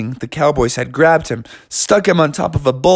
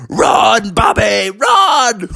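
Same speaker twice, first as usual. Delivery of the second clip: higher, urgent shout; yelling clowns; 8 semitones higher, much slower than usual. Acted. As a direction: warn him the bull is coming. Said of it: "They were yelling".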